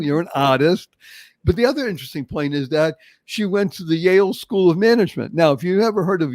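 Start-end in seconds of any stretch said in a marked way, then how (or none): 0.0-0.9 Boston accent, dropped r in "artist". Shown as a demonstration. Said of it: "I can do the accent still".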